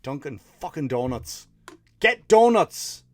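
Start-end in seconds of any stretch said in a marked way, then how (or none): 2.0-3.0 exasperated shout. Real, not acted. Ranting at Dunkin' Donuts.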